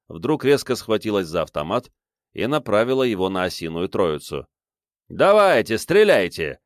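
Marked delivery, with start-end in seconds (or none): 5.1-6.6 louder defiant shout. A narrator's reading. Father daring the armed girls to shoot, loud shout. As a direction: dare them to fire, yelling. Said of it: "закричал он".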